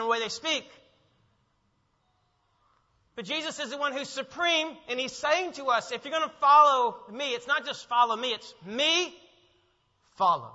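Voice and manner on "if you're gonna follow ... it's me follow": louder, me stressed, follow dropped as an order; emphatic word order. Shown as a demonstration. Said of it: "that word follow is not a suggestion".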